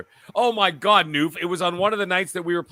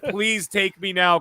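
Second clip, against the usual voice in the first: slow plea; slower than usual. Retold or imitated. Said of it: "I'm like".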